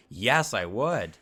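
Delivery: slow, high, loud mock delight; eager networker replying. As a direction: draw it out with hammed-up enthusiasm. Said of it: "and they're like".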